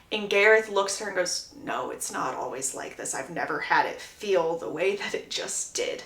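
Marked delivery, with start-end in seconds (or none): 1.6-6.0 low, hushed lover's voice; tender confession. Acted. Gareth reassures Hyacinth after intimacy, tenderly sincere. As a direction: drop low and soft, slowing for sincerity.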